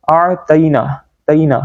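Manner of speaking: "اعطینا" with a light dotted t; thin t mistake. Shown as a demonstration. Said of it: "نقطوں والا تا پڑھ جاتے ہیں".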